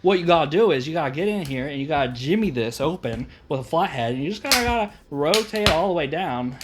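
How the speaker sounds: put-on amateur Steve Irwin-style Australian accent. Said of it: "do it in an Australian accent".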